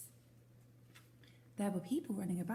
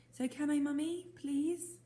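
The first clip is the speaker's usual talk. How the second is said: pleading; 8 semitones higher, 4 dB louder than usual. Acted. Owlet pleading with mother.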